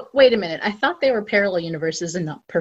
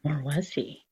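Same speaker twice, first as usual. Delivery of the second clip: a hushed, much softer mock-ominous echo; mock spooky echo; 5 semitones lower, 10 dB quieter, slower than usual. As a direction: echo it back like a mock mystery-show tease. Echoing a spooky teaser.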